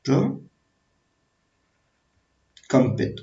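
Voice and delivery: प्रकंपित stretched very slowly, syllable by syllable; teacher stretching the term for dictation; drawn-out term. Shown as a demonstration. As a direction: spell out प्रकंपित in slow motion. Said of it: "रा को हम बोलते हैं प्रकंपित".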